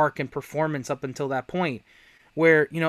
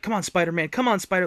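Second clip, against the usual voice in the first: pep talk; 4 semitones higher, 5 dB louder, faster than usual. Retold or imitated. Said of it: "like a pep talk to himself".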